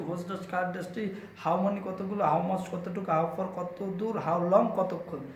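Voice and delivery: quick-fire bilingual recital; rapid drill with meanings. Shown as a demonstration. Teacher drilling question words with their meanings for learners, rapid reading. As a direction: rattle off each word with its translation. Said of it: "খুব দ্রুত পড়তে হবে এবং অর্থ সহ".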